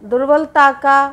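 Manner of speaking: दुर्बलता का stressed, high and loud; stressed word. Shown as a demonstration. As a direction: lean hard on दुर्बलता. (दुर्बलता पर ज़ोर)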